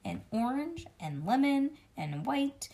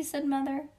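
ordinary delivery, nothing marked

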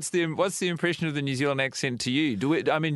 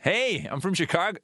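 a higher, mock Chicago echo; Chicago accent; 5 semitones higher than usual. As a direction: throw the Chicago line back with a grin. Copying friend's Chicago bit.

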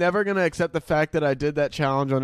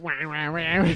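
put-on drunken wah sounds; 2 semitones higher than usual. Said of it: "I was just like".

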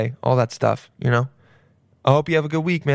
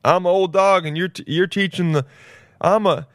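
hammed-up excitement; 7 semitones higher, 4 dB louder than usual. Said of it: "I'm like".

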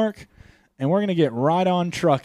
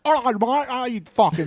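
high, hammed-up Martian accent; ridiculous invented Martian twang, pitched up; made-up Martian accent; 9 semitones higher, 4 dB louder than usual. Mars settler showing off the new accent, silly Martian accent. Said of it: "that's gonna be the Martian accent".

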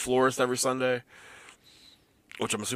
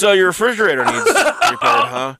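talking into hand phone; 3 semitones higher, 3 dB louder than usual. Pretend. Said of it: "He's talking it to his hand right now like it's a phone".

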